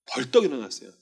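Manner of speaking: normal talking voice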